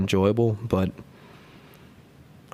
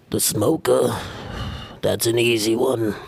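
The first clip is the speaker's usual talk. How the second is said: put-on Jersey girl voice. Shown as a demonstration. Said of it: "the Jersey Girl impression".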